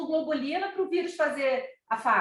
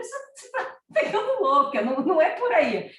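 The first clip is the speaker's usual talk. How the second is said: laughing; 4 semitones higher than usual. Real, not acted. Laughing rebuke of daughter.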